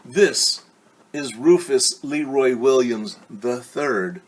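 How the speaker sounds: loud, slow grand introduction; announcing principal. Acted. Principal introducing Rufus to the class, proudly. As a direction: announce the new boy to the class. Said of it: "Principal Lippitt announced".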